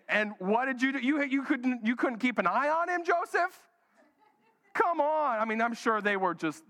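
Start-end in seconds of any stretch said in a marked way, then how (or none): 0.1-5.4 mock exasperated wife. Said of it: "I can hear Mary right now".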